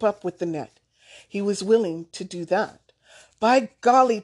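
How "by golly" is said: loud glad shout, a little higher. A narrator's reading. Grandfather shouting praise to Thomas, loud. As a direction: call out in proud delight. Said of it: "he shouted".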